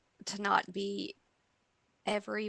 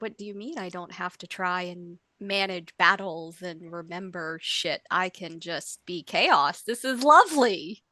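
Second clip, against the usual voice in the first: delighted disbelief; 3 dB louder than usual. Retold or imitated. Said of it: "So I was like".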